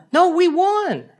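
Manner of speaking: high, insisting through a laugh; laughing insistence. Retold or imitated. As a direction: laugh while holding her ground. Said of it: "And my wife goes".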